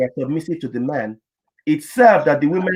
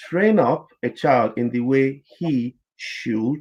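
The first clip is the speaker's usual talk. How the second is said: slow scripture quote; 3 dB quieter, slower than usual. Retold or imitated. Quoting scripture, stretched out slowly.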